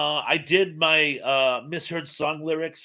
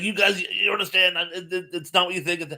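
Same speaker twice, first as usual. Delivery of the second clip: retold anger; 5 semitones higher than usual. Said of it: "he gets really angry".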